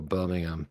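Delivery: Birmingham said low and soft, as locals supposedly do; local pronunciation. Retold or imitated. Host shows how they say it, local pronunciation of Birmingham. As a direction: imitate the local way of saying Birmingham. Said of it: "they say Birmingham".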